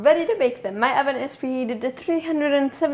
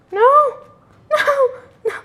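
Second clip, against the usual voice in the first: high-pitched cry of dismay; 5 dB louder, faster than usual. Real, not acted. Baker watching vanilla run down the bottle, high dismayed cry.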